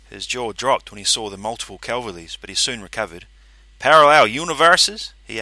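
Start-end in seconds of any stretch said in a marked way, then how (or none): 3.8-5.1 high, loud questioning; incredulous. A narrator's reading. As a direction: ask in disbelief. Vanzetti incredulous.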